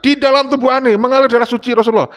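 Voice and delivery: imitated courtroom shout. Defendant proclaiming his sacred blood to the judge, imitated shout. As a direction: cry it out like a mock plea in court.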